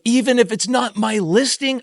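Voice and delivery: high, slow disbelieving question; incredulous question. Retold or imitated. Agent checking the partnership offer with investor, incredulous. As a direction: mimic someone amazed, pitched right up and drawn out.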